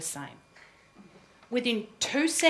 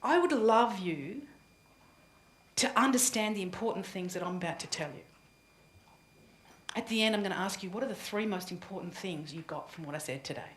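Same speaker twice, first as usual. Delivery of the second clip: confident opener demo; 2 semitones lower, 3 dB quieter than usual. Shown as a demonstration. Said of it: "You get up and go".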